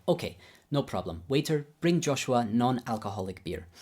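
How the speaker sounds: lightly imitated Babayan accent, obliging. Teacher calling on the waiter, in imitated Babayan accent. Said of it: "I'll do my best Babayan accent".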